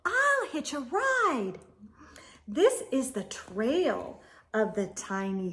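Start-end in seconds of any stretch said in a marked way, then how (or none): 0.0-1.6 higher, bright sudden cry of an idea; snail's eureka cry; excited idea. Acted. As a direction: burst out with the plan. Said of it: "then cried".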